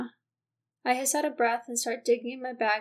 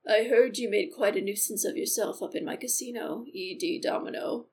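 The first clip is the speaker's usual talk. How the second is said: a lightly lowered, menacing casino owner; a hint of a smug villain's lower voice; deep casino boss; 2 semitones lower than usual. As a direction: speak down to him like you own the place. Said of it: "my voice is so not deep".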